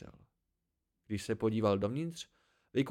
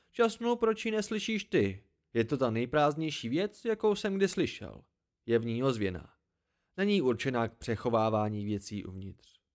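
lightly voiced exasperated hermit; 3 dB louder than usual. (poustevník zprvu lehce netrpělivý, pak klidnější)

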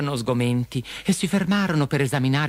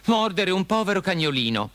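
rimprovero indignato su tono alto; grido indignato; 9 semitones higher than usual. A narrator's reading. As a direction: sgrida un prepotente, senza urlare. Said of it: "gridò". (sgridata acuta e indignata)

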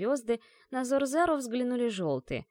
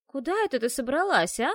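обеспокоенно; 5 semitones higher, 5 dB louder than usual. Acted. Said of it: "забеспокоилась Лола".

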